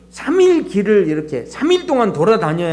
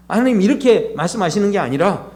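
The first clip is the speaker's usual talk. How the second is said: ordinary delivery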